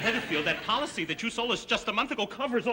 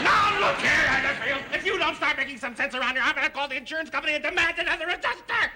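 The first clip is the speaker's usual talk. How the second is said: raised voice; 2 semitones higher than usual. Acted. Policyholder threatening to demand another adjuster, raised voice. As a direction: start with a shout and barrel on. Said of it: "Please lower your voice".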